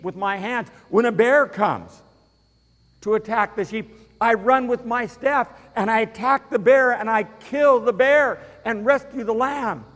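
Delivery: put-on a shepherd boy proving himself; young David, fired up, to King Saul; bold young David. Voicing David boldly to the king.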